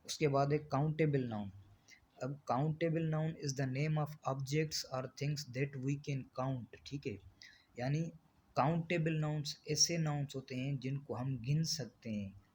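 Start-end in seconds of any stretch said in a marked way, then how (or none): 2.5-6.8 very slow, word-by-word reading of the definition; slow dictation. Shown as a demonstration. Teacher dictating a definition to the class, very slow and even. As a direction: spell the definition out slowly for students to copy.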